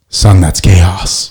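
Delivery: a lightly voiced patient father setting his son straight; dad correcting son. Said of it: "He's like".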